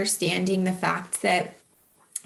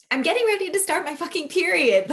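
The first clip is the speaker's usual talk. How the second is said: exasperated realization; 9 semitones higher, 4 dB louder, faster than usual. Retold or imitated.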